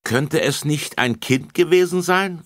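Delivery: high, loud eager question; Bärbel asks the policeman, high; child asking. Acted. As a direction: ask like a clever little girl. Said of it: "fragte Bärbel".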